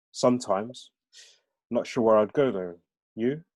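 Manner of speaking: Birmingham lad's hesitant-paced reply; Brummie accent. Acted. Answering a friend about leaving, in Brummie accent. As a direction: answer in a light Brummie lilt. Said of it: "aren't familiar with the Brahmi accent".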